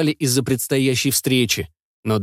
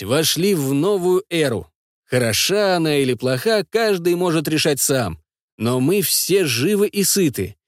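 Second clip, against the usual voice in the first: toast speech; 3 semitones higher than usual. Acted. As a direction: proclaim the toast to the crowd. Toast to the whole commune.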